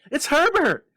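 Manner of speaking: loud, high frantic scream. Acted. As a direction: scream her son's name in hope. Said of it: "she screamed".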